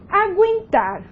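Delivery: Aguentar with gu said as gw; careful dictation of Aguentar, the U audible; U pronounced. Shown as a demonstration. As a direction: sound the U in Aguentar, a-gwen-tar. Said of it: "você tem pronúncia do U".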